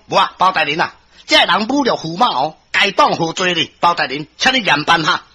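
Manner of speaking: mildly fierce, haughty complaint; fierce demand. Acted. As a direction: press the judge to punish the offender. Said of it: "陈世美伊诚歹讲". (小可歹聲嗽要求嚴辦)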